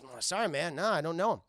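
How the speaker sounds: casual, offhand denial; nonchalant. Retold or imitated. Ginger-haired kid covering for John to the cop, nonchalant. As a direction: shrug it off like it is nothing. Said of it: "he played it fucking very nonchalant".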